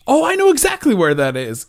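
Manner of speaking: wife perking up with the answer, lightly voiced; mock eager wife. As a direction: chirp it up like she's delighted to know. Wife suddenly recognizes gnome tree.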